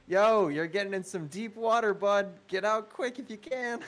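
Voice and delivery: high, loud call down from above; shouting down. Acted. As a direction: yell the warning down to him. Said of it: "I'm gonna shout down there again".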